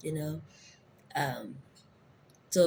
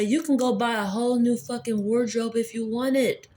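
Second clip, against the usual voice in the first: exasperated rant; 3 semitones higher than usual. Retold or imitated. Telling the aunt off about the clothes, exasperated. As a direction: tell her off in disbelief. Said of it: "I was like".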